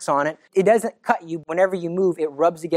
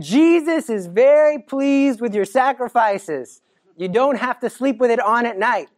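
gentle Mary; 3 semitones higher than usual. Acted. Mary voiced, slow.

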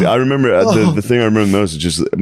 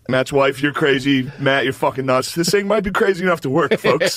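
put-on drunk best man speech; 3 semitones higher, 4 dB quieter than usual. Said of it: "I got up there, I was like".

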